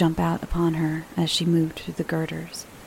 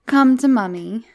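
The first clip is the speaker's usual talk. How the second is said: higher, louder coaxing; coaxing call; 5 semitones higher, 8 dB louder than usual. Acted. Mother calls Miranda into her arms, coaxing. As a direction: call a child to come to you. Mother calling child over.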